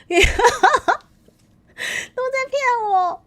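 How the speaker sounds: high, slow mock wail; 委屈哀嚎. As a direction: whine it out as if betrayed. Feels tricked by chat, mock complaint. (拉长高音假装委屈)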